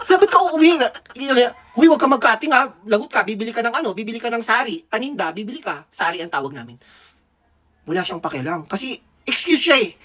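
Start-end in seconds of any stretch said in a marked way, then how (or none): 0.1-5.8 calling out. Retold or imitated. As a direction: call after her to stop. Calling out to leaving classmate.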